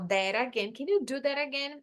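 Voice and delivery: "that again" joined, the T as a tapped R; linked words. Shown as a demonstration. Teacher shows the common spoken form, linked "that again". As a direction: run "that" into "again" like "dera-gen". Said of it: "eu poderia juntar".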